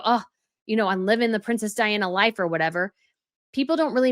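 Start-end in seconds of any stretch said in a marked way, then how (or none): 0.0-2.4 a breezy mock boast, fast; mocking a Diana wannabe. Imagined Catherine comparing herself to Diana, breezy mock boast. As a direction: toss it off like a self-satisfied celebrity. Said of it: "and go".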